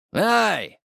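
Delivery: sharp high yelp; a sudden shout from behind; cry out. A narrator's reading. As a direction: someone behind crying out in alarm. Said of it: "крикнули сзади".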